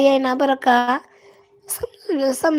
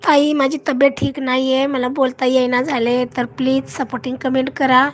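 real sore-throat voice; hoarse from cough. Real, not acted. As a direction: talk through a throat worn out by coughing. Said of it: "खोकल्याने घसा बसलाय अहो माझा".

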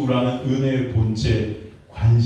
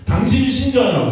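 higher, louder accusing cry; retold shout; 9 semitones higher, 4 dB louder than usual. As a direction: fling the question at him. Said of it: "제가 소리쳤어요".

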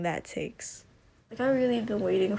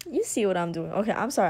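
out of breath; faster than usual. Real, not acted. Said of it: "I'm out of breath".

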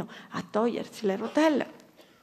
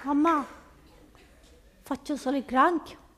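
a hint of a pleading kid; slightly higher, wheedling; child asking for just one more trick; lightly voiced child; 3 semitones higher than usual. Kid again.

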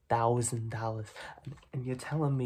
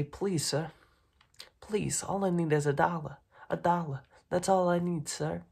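higher, pleading street beggar; 4 semitones higher, 3 dB louder than usual. Retold or imitated. Mob boss showing the kid how to beg, pleading beggar. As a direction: beg for a dollar pitifully. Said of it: "and say".

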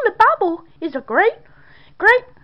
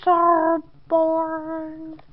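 bored drawl; 5 dB quieter, much slower than usual. Acted. Bored child mocking the Bible.

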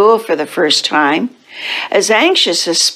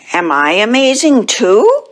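lightly voiced little cat, higher pitch; hopeful pupil question; 4 semitones higher than usual. Splat asking his teacher, a hint of childlike hope. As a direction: ask hopefully, lifting higher at the end.

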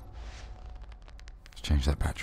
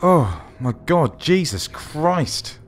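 slow, drawn-out shock; stunned, stretched-out swearing; shaken exclamation; 4 semitones higher, 4 dB louder, much slower than usual. Real, not acted. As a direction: let it out slowly after a big fright. Recovering from a jump scare.

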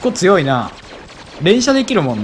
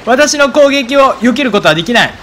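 villain voice; 6 semitones higher than usual. Pretend. Hams up villain lines while playing.

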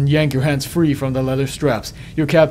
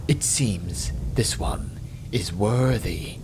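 surprised demon; 5 semitones lower, 7 dB quieter, slower than usual. Acted. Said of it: "says the surprised demon".

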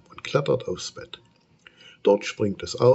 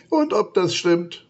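higher, louder huffy monster; grumpy grumble; 11 semitones higher, 5 dB louder than usual. Acted. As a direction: snap it out crossly. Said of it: "motzt das Monster".

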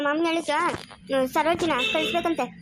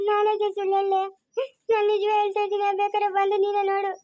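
mock crying; 3 semitones higher than usual. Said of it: "ಅಯ್ಯೋ, ಅಳ್ಬೇಡ".

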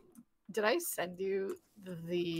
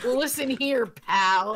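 tough guy voice; 4 semitones higher, 8 dB louder, much slower than usual. Retold or imitated. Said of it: "And I'm like".

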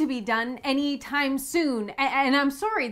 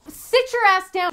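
loud, slow order; stern command; 6 semitones higher, 7 dB louder, slower than usual. Acted. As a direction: put him in his place. Doctor loses patience with cousin.

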